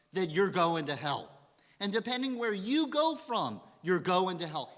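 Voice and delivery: loud, imitating a hateful street preacher; retold preacher's tirade. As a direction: preach damnation at them, retold. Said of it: "and scream at them".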